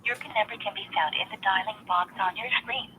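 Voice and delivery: recorded automated prompt voice; even, prerecorded system announcer; phone menu voice. Real, not acted.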